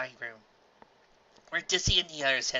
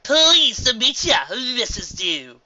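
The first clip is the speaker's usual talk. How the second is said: slow, bright chirp; chirpy; 9 semitones higher, 10 dB louder, much slower than usual. A narrator's reading. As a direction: chirp it cheerfully. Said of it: "Clarity chirped".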